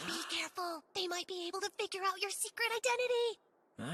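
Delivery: low, soft, urgent aside; hushed warning. Acted. Girl warning Haruto about his secret identity, hushed. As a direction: warn him under your breath.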